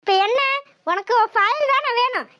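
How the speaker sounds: high, sharp shut-up to her son; angry order. Acted. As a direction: snap at him to shut his mouth.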